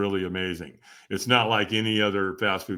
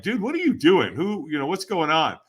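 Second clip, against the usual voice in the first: amazed friend; 5 semitones higher, 4 dB louder than usual. Retold or imitated. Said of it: "he was like".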